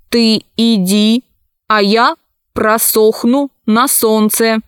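lightly voiced emotionless robot; a hint of an unfeeling machine. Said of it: "голоса их никаких чувств не выражали". (голос робота, без чувств)

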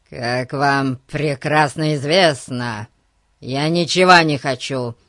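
loud, irritated policeman; forceful, exasperated reply; thoroughly irritated. Acted. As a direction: answer back with annoyance, pushing the words. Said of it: "в полном раздражении ответил Гун".

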